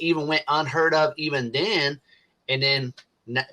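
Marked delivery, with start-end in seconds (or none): 2.5-3.5 stoned. Real, not acted. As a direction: drift off like a stoned guy. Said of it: "I'm a little stoned".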